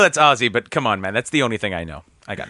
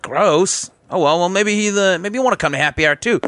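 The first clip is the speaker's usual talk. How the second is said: office bro sketch; 4 semitones higher than usual. Acted. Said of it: "sketch office bro".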